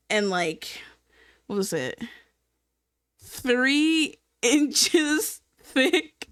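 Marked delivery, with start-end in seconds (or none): 3.2-6.3 hushed, slow whisper with a laugh; whispered in disbelief. Real, not acted. Telling viewers the size, whispered slowly in disbelief. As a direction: breathe the size out, half laughing.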